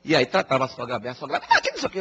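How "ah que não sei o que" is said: high fussy mother-in-law, lightly mocked. Mother-in-law chattering to her daughter-in-law, high mock voice. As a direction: pitch it way up like a chattering old lady.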